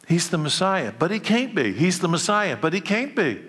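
high-pitched back-and-forth dispute; crowd arguing. Acted. Preacher acts out the divided crowd for the congregation, high-pitched arguing.

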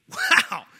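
loud, high gasp of wonder; amazed wow. Retold or imitated. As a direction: blurt it out in awe. Friend amazed by replica.

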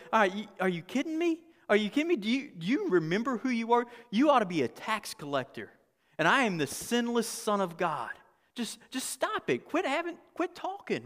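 mock losing patience, pitch climbing towards the end; imagined exasperated Jesus. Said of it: "just gonna lose it on these idiots".

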